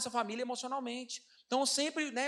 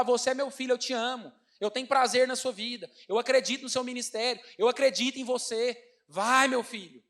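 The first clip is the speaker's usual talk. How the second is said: a lightly voiced God, louder and affirming; 2 semitones higher, 4 dB louder than usual. Pastor voicing God blessing him as son, affirming. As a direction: speak it like a blessing over a son.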